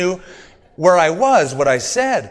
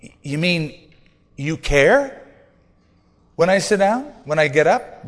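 amazed disbelief. Retold or imitated. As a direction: marvel aloud as if just realizing it. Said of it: "I thought".

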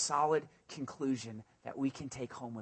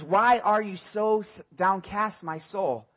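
psalmist's lament; 3 semitones higher, 5 dB louder, slower than usual. Acted. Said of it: "It says".

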